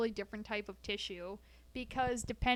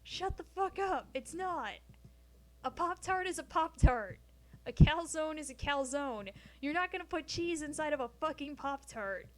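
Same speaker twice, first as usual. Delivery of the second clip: mock outburst; 4 semitones higher than usual. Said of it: "and I'm like".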